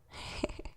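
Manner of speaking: quick whispered snicker; breathy giggle. Acted. Demon teasing about the hell part, breathy giggle. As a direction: let out a tiny hushed laugh.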